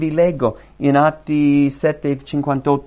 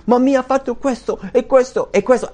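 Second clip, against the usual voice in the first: much higher, whiny listing of wrongs; mocking grudge-holder; 11 semitones higher than usual. Preacher mimicking a churchgoer who lists every wrong done to them. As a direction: mimic someone counting up grievances.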